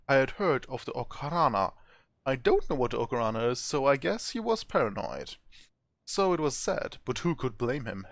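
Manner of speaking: reading the game's story text aloud; storyteller voice for a game's journal; story narration. A narrator's reading. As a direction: narrate the travel log with a light touch. Reads game story text aloud.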